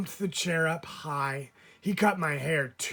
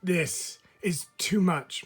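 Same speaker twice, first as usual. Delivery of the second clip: protesting; 3 semitones higher, slower than usual. Acted. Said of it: "my mom protested".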